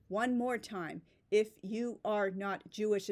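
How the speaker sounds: slow, separate beats on "you are not Jewish"; word-by-word emphasis. Retold or imitated. Reading out an emphatic Instagram post, word-by-word emphasis. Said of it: "put a period between each word to emphasize it".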